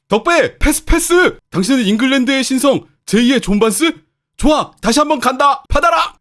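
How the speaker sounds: loud, high hopeful shouts; eager calling for the ball. Acted. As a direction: call across the pitch for a pass. Acted teammate calling for a pass. (패스를 달라고 높고 크게 외치기)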